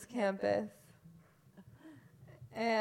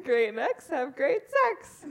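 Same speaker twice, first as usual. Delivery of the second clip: laughing; 3 semitones higher than usual. Real, not acted. Repeating a joke, cracking up.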